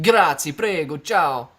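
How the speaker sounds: lightly put-on Italian accent, punchy first word; playful attempt at an Italian accent. Shown as a demonstration. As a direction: show off your amateur Italian accent. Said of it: "How's my Italian ex-, accent?".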